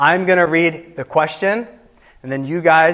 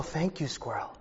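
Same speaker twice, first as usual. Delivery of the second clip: mock contestant; 16 dB quieter than usual. Mocking contestant thanking squirrel.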